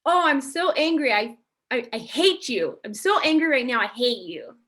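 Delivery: mock angry venting; angry outburst. Host acts out raw anger without emotional intelligence, angry. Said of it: "I have the example of".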